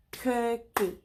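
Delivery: cookie said in two beats, COO-KIE; clapped syllables. Shown as a demonstration. Teacher to kids, clapping out the syllables. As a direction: split cookie into its two claps. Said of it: "let's say it again".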